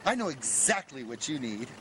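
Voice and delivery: offhand, unbothered reply; casual. Retold or imitated. Sales lady calmly answering the panicked man, casual. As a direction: shrug it off like it happens daily. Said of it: "She says it so casual".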